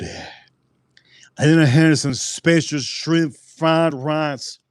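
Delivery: whispered, slow, as if sharing a secret; hushed whisper. Real, not acted. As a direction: lean in and whisper about the food. Savouring food, hushed aside.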